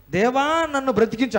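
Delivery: a hammed-up desperate prayer; mock pleading prayer. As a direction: cry out to God as if begging. Imitating believers' desperate prayer.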